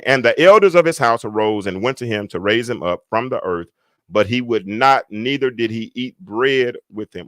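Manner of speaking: emphatic reading of a Bible verse; projected pulpit reading; scripture reading. Real, not acted. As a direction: read the verse out to a congregation. Reads the verse aloud.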